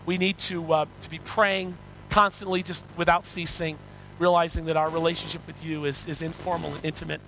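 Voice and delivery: earnest, measured pastoral prayer; congregational prayer. Real, not acted. Preacher thanking God for his word, congregational prayer. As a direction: lead the congregation in sincere prayer.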